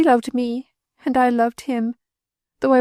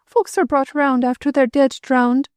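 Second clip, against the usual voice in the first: frantic grief; 8 semitones higher than usual. A narrator's reading. Widow hushing her child while her heart breaks, frantic. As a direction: come apart with grief.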